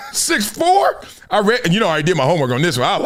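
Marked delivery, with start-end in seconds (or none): 0.1-1.0 high laughing question; incredulous laughing six four; laughing disbelief. Real, not acted.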